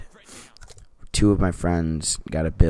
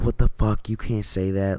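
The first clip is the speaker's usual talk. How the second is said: mild mock yell, higher at the start; raised-pitch retold outburst; 3 semitones higher than usual. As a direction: imitate an outraged protest without full volume. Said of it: "I'm, like, yelling at this dude".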